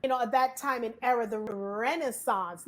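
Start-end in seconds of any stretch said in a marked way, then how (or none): 1.3-2.7 slow, drawn-out Renaissance; showing off. Real, not acted. Showing y'all a big word, slow and drawn out. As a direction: savour the big word, stretching it.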